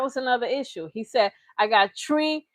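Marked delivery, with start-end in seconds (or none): 1.6-2.5 slightly higher mock Jamaican accent; a hint of Jamaican patois; imitated Jamaican accent. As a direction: mimic his put-on Jamaican accent. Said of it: "put on a new accent".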